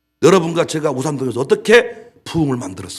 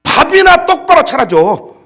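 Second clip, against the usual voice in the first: loud, high, slow demanding line; high slow husband's complaint; mock nagging husband; 12 semitones higher, 10 dB louder, slower than usual. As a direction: bark it like a grumpy husband. Husband voiced nagging wife.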